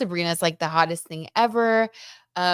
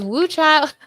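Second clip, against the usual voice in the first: mock exclaim; 9 semitones higher, 8 dB louder than usual. Reading chat exclamation aloud.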